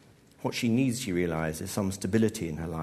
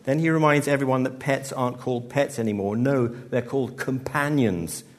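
loud, punchy stand-up line to a rowdy crowd; loud stage delivery; 4 semitones higher, 5 dB louder than usual. Acted. Comic repeating the pets gag to the crowd, loud. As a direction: sell the joke to the back row.

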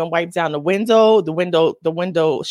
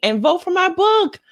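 excited; 10 semitones higher than usual. Real, not acted. Excited plug.

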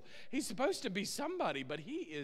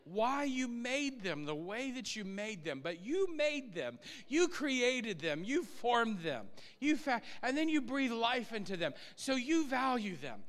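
spoken prayer; 2 semitones higher than usual. Acted. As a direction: pray it out, word by word. Prays aloud to the Lord.

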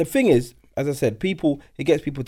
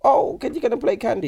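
put-on old people voice; 6 semitones higher than usual. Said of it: "Man put on the old people voice".

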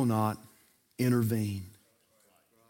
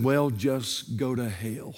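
deadpan punchline; 6 semitones lower, 6 dB quieter than usual. Acted. Punchline delivered slow and low.

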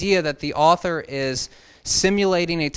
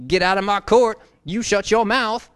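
much higher, loud feisty judge yelling; Judge Judy impression; 8 semitones higher, 9 dB louder than usual. Imitating Judge Judy ordering a man out, loud high mock yell. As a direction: throw him out of court, hammed-up. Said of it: "If you're doing a Judge Judy impersonation".

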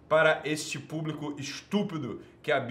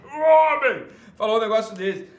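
higher and louder mock disbelief; escalating indignant shout; 7 semitones higher, 10 dB louder than usual. Real, not acted. Host incredulous at a man's comment, escalating indignant shout. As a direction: blow it up bigger each time.

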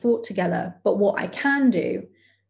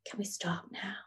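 a light, polite Canadian friend, hushed at first; gently and politely ask to stop, half whispered; 5 dB quieter than usual. Retold or imitated. The friend halting the class, mimicked in a soft, polite Canadian voice. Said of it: "in a very polite Canadian voice".

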